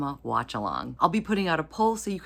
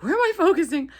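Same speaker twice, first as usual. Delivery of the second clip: much higher, louder mock-bewildered voice; confused camera; 13 semitones higher, 6 dB louder, faster than usual. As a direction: voice the lost camera, playfully baffled. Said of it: "this poor camera's like".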